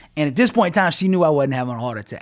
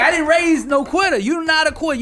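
mom voice; 13 semitones higher, 5 dB louder than usual. Retold or imitated. Mom scolding son to keep going.

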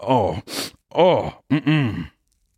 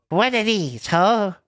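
greeting pitched much higher; 9 semitones higher, much slower than usual. Shown as a demonstration. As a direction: squeak the greeting up high, playfully. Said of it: "what if I did kinda high pitch".

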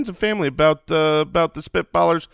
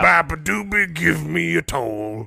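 dim booming ogre. Acted. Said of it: "That's the voice of a bridge troll".

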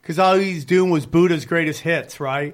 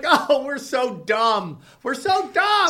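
mock dumb voice; 6 semitones higher, slower than usual. Polish people voiced self-mocking.

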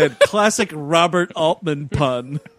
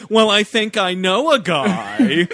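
slow, bad celebrity impression; drawn-out, poorly imitated actor's voice; Elliot Gould; slower than usual. Casino heist crew member offering a contact, in a bad impression. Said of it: "shittiest fucking Elliot Gould impression".

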